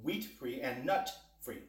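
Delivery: slowed right down to get it right; slow careful correction. Real, not acted. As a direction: say it slowly and deliberately. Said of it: "let's get that right".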